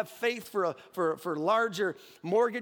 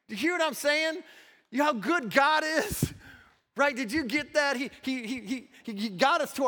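much higher and louder, fired up; rousing preaching; 9 semitones higher, 5 dB louder than usual. Real, not acted. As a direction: call out to the crowd with excitement. Preacher rouses the congregation.

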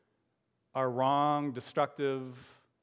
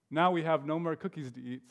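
sadly. Acted. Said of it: "said Toad sadly".

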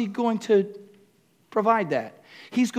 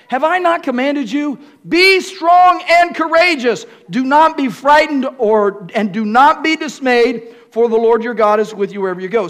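high, loud Scripture proclamation; fervent reading; 4 semitones higher, 7 dB louder than usual. Acted. Preacher proclaiming verse nine to the congregation. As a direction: read it like a rising charge.

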